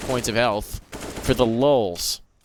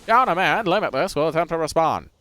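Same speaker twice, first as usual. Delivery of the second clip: put-on old radio announcer. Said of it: "There's an old-timey radio broadcast this round".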